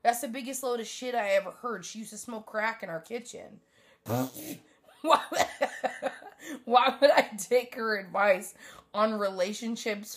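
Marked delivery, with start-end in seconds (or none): 4.1-10.2 laughing through the question; giggling disbelief while asking. Real, not acted. Laughing about mom's advice.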